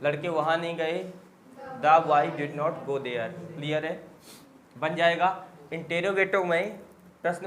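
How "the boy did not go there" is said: slow, careful model sentence; slow classroom model; slow dictation. Shown as a demonstration. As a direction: space out every word. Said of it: "teacher models answer".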